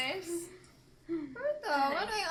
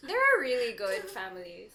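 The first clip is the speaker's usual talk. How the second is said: put-on Valley Girl accent; 4 semitones lower than usual. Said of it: "I love my Valley Girl accent".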